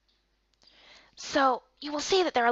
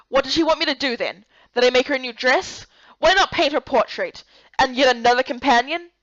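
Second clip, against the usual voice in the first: louder, irritated shouts from the cold room; annoyed yell from next room; 4 dB louder than usual. Acted. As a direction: grumble loudly at her demands. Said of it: "He continued to yell".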